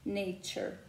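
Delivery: American "nature" with a soft R at the end; American accent. Shown as a demonstration. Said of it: "Y en el caso del inglés americano, lo fusionamos con la R".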